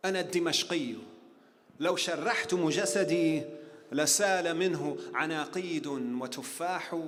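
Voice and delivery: measured Arabic poetry recitation; poem recital. Acted. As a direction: recite the verses with weight, pausing between lines. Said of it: "He said".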